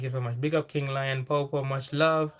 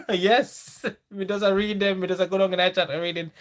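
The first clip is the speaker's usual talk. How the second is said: Jamaican patois; 5 semitones higher, 4 dB louder than usual. Pretend. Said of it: "The accent make me like".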